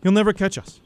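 high, loud panicked shouts; a scared boy shouting for his mother to run; frantic shouting. Acted. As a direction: yell in panic to save your mother.

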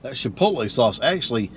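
talking while chewing; muffled chewing speech; mouth full. Real, not acted. Seen 1: bite taken at -2; closed full mouth visible until food blocks face.

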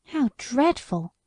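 a touch of mild shock at the cruelty; understated dismayed exclamation; shocked exclaim. Acted. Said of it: "I exclaimed".

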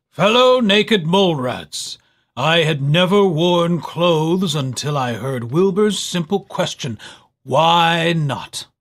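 lightly voiced regal elder; a touch of a stately speech; proclaiming.

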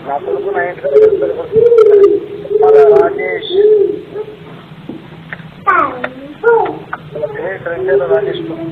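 high, loud furious yell; angry shouting. Real, not acted. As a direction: shout it down the phone. Heated phone quarrel, shouting.

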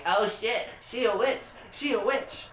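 high-pitched imitation of alarmed townsfolk; put-on high voice, crying out in comic alarm; mock panicked crowd. Everyone reacting to Elsa's ice powers, in a high mock-panicked voice.

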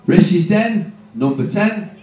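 loud bingo call for the hall; booming call. Acted. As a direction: boom the number out. Caller booms a call.

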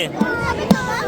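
soft unvoiced whisper. Real, not acted. Whispering to the child about kebab. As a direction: breathe it to the little one.

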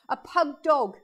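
a real laugh riding the fix; laughing correction. Real, not acted. Correcting herself to the viewers, laughing. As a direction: still giggling through the words.

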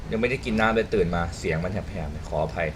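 low, soft, slightly hoarse; apologetic, with a dry just-woken throat; a touch of real hoarseness; hoarse morning voice. Real, not acted.

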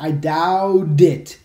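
"doubt it" very slow, last consonant starting "it"; final consonant linked. Shown as a demonstration. Teacher breaks down "I doubt it", slowly moving the t onto "it". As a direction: drag out "doubt", carry its t onto "it". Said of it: "vai pegar a última consoante".

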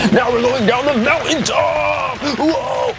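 put-on high, slow, wide-eyed kid voice; playful sledding squeal. Playing a kid sledding in the bathtub, high slow squeal. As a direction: ride the slope like a thrilled child.

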